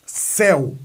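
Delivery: "céu" with strong E, weak final U; E forte. Shown as a demonstration. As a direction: lean on the E of "céu", U trailing. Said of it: "o E é forte, o U não". ("céu" com E forte e U fraco)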